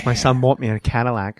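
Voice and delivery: whispered Walken. Shown as a demonstration. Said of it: "go down into the whisper".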